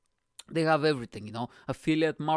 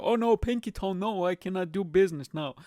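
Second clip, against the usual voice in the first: mock panicked rich guy; 4 semitones higher than usual. Mocking billionaire losing pinky toe.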